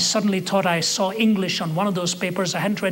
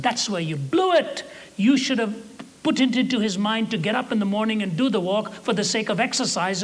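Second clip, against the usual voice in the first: higher-pitched, emphatic rebuke; exasperated boss voice, pitched up; scolding senior devil; 5 semitones higher than usual. Acted. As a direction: berate a bungling junior for blowing it.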